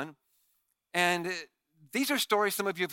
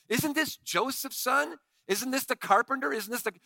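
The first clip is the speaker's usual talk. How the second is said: puzzled crowd; 5 semitones higher than usual. Retold or imitated. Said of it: "people are asking".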